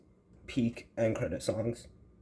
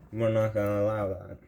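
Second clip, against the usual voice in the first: talking funny. Real, not acted. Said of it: "sorry if I'm talking funny".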